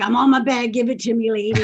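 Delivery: dog begging its owner for a treat, excited voice; eager dog voice. Retold or imitated. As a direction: play the impatient dog demanding its treat. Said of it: "then they'll run over and be like".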